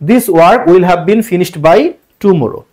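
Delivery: very slow, each word set apart; slow dictation reading. Shown as a demonstration. Teacher announcing the correct passive answer, very slow and deliberate. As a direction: spell out the answer slowly for the class. Answer read again slowly.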